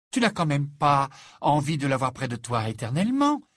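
disbelieving question, rising at the end; incredulous. Acted. Ginny challenges her brother Ron, mildly incredulous. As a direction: ask it as if you can't believe him. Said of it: "dit Ginny à Ron d'un air incrédule".

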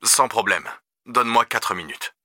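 lightly voiced concerned dad; father on phone. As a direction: question a son with restrained concern. Father agrees to come.

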